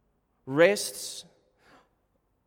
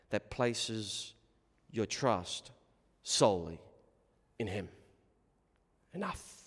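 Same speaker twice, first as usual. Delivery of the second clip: hushed preaching; 3 semitones lower than usual. Real, not acted. Preacher telling Christians they both believe and doubt, hushed.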